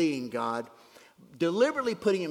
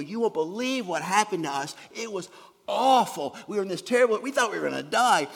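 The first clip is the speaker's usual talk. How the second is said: put-on drunk sailor's tale; 6 semitones higher, 7 dB louder than usual. Drunk sailor telling the storm.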